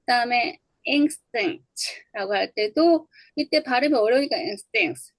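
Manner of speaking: instincts said slowly with the consonant cluster worn down; teacher modelling a reduced cluster; model pronunciation. Shown as a demonstration. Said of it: "이렇게 발음이 될 때도 있대요".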